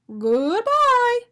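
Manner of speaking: high, loud call of goodbye; excited high yell; cheery yell. A narrator's reading. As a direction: shout a happy farewell. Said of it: "Arnie yelled to each donut".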